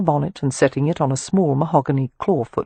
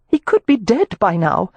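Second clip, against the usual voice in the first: put-on raised, polite young lady; Amelia's voice; 5 semitones higher than usual. Amelia addressing the club manager, formal and raised. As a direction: speak up, formally courteous.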